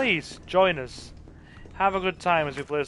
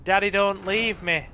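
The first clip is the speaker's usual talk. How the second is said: higher, whiny mock child begging not to be left; pleading gunpowder child; 5 semitones higher than usual. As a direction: beg like a scared little kid, hammed-up. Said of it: "It'll be like".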